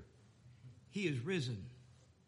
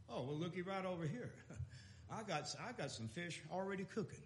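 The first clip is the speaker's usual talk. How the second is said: soft teasing Lord; 2 semitones lower, 11 dB quieter, faster than usual. Retold or imitated. The Lord teasing, voiced softly.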